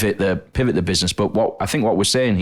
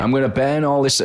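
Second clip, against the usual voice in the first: macho vow; 6 semitones higher than usual. Retold or imitated. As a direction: ham up a macho declaration. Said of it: "is massive with men".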